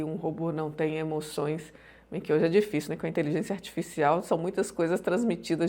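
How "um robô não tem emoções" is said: robot voice. Shown as a demonstration. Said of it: "se eu for falar igual um robô aqui".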